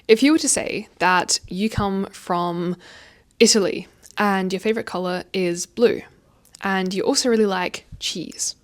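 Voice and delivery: slow, with a pause before each chunk, "Italy", "blue", "cheese"; separating facts with pauses so they stick. Shown as a demonstration. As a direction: give each fact its own breath and gap. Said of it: "three separate pieces of information".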